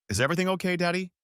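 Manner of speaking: put-on small, timid child's voice. A narrator's reading. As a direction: ask it like a worried little girl. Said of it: "she asked in a small voice".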